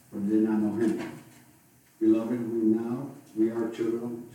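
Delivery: measured, projected Bible reading; formal reading aloud from the pulpit; Scripture reading. Acted. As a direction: read the passage out firmly to a congregation. Reads the Scripture passage aloud.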